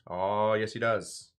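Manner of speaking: lightly imitated teacher's accent, drawn-out opening; hint of a history teacher's accent; Bob Heaps accent. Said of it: "I slip into my Bob Heaps".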